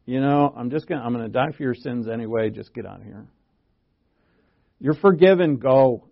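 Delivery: breezy, hurried brush-off; offhand dismissal. Retold or imitated. Preacher voicing the Lord wrongly dismissing the sinful woman, offhand. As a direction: toss it off like you can't be bothered. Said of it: "didn't say to her".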